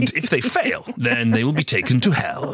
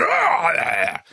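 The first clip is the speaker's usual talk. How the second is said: scare yell; 6 semitones higher than usual. Retold or imitated. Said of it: "like this".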